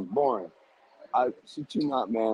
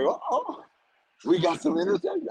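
high-pitched mock excitement; teasing retold cheer, pitched up; retold gloating. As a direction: act out crowing over a lucky break, way up high. Retold gloating after interceptions.

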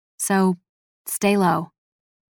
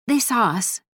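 higher-pitched, mildly distressed admission; sputtered; 4 semitones higher than usual. A narrator's reading. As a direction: blurt it out with slight strain. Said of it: "she sputtered".

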